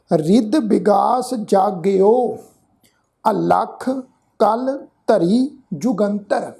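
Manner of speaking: slow, careful verse reading with pauses; slow recitation. Shown as a demonstration. Teacher showing the sangat how to recite. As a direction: lay out every word for listeners to copy.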